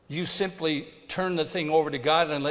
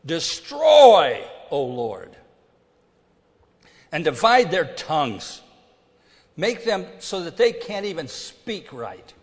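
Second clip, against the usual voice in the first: loud, high proclamation of David's plea; forceful scripture cry; 5 semitones higher, 11 dB louder than usual. Acted. Preacher voicing David's curse, loud and high. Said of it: "he says in verse nine".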